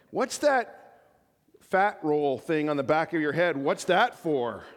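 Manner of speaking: a hint of a small child; child's voice. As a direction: play the curious kid. Kid's question voiced by pastor.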